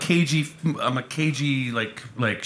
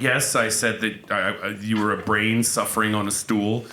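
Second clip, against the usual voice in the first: court reporter; 5 semitones lower than usual. Acted. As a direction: recount it like testimony on the record. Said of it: "recounting it like a fucking court reporter".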